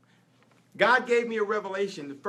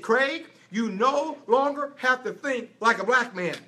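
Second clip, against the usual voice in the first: lightly voiced God, slow and measured; a hint of a solemn divine voice, slower; God speaking gently to his son, slowly; 3 semitones higher than usual. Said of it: "He said".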